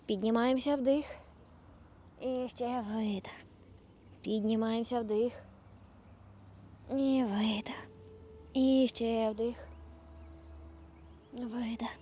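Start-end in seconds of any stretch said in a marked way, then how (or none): 2.2-11.9 whispered breath cues. Real, not acted. Yoga teacher whispering breath cues.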